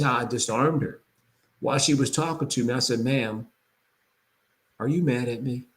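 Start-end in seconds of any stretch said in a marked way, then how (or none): 3.0-5.6 soft, gentle question to an angry caller; calm concerned tone. Shown as a demonstration. Realtor calming an upset appraiser on the phone, gently. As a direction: ask it calmly, reflecting her anger back. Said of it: "Notice the tone, the reflection".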